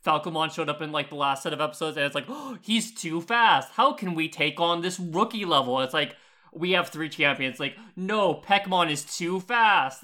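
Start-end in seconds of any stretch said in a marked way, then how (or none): 2.3-5.8 hammed-up cartoon panic; mock alarm. Mocks the show's panicked characters. 8.0-10.0 slow, stretched-out mock dismay; hammed-up cartoon hero in trouble; mock alarm. Mocks the show's panicked characters.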